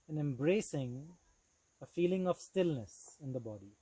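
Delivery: measured instruction with long pauses; phrase by phrase, unhurried yoga teacher; guided meditation. Acted. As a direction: lead them calmly into stillness. Begins guiding relaxation pose.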